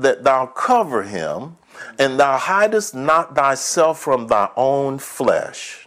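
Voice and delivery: slow, weighty scripture reading; reading the Bible aloud to the congregation, slow and solemn. Acted. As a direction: lay each phrase down deliberately. Reads scripture slowly.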